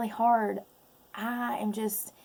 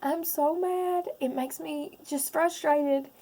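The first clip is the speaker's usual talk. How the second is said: slow, higher, strained; forcing the words out through tears; real upset anger; teary frustration; 3 semitones higher, slower than usual. Real, not acted.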